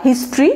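হিস্ট্রি as two-syllable "his-tri"; correct pronunciation. Shown as a demonstration. Teacher repeats the model, হিস্ট্রি with no middle vowel. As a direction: join t and r tightly in হিস্ট্রি. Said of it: "উচ্চারণটা হচ্ছে একদমই আলাদা".

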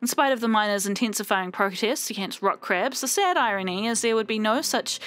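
measured newsreader delivery, falling sentence ends; news anchor voice. Acted. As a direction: read it like a news bulletin. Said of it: "I've gone into, like, news anchor voice".

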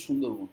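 সুন্দরবন said as "Shundorbon"; Bengali pronunciation. Shown as a demonstration. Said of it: "আমরা বাংলায় বলি". (বাংলা উচ্চারণে "সুন্দরবন", শ দিয়ে)

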